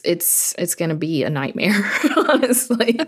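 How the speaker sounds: laughing. Real, not acted. Laughs at her own busy month.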